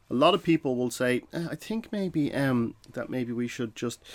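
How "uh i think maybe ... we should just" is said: submissive, hesitant. Shown as a demonstration. Submissive person in a meeting, hesitant and unsure. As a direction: trail off apologetically. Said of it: "that's a submissive person".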